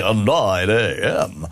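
low, slow smooth DJ delivery; radio DJ voice. Shown as a demonstration. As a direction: purr "nine A M" like a radio host. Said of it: "that sound like a D J?".

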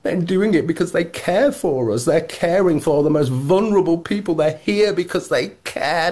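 lightly hammed-up pious politician voice; mocking Angela Rayner. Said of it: "she was saying".

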